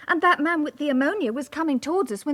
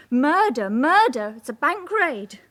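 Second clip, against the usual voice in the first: a raised, half-acted cry of alarm; retold shout; 4 dB louder than usual. Clerk retelling the fleeing woman's cry, mild mock shout. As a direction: echo her panicked yell, louder but not full out.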